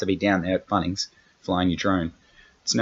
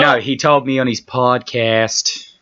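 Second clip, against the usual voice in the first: slow, slightly higher and louder Bill Burr bit; a lightly done Bill Burr, drawn out and insistent; a hint of Bill Burr telling you off; Bill Burr impression; 5 semitones higher, 4 dB louder, slower than usual. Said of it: "that's my Bill Burr impression".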